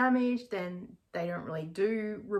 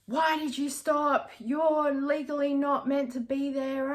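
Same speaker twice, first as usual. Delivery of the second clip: higher, slow, scolding mock of the other driver; imitating angry woman; 6 semitones higher, slower than usual. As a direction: retell her accusing tone, drawn out. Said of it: "started abusing me".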